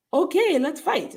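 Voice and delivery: high, slow attempt at a Scottish accent; Nikki, bad Scottish accent. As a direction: do a terrible Scottish accent, slowly. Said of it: "at sounding like Nikki".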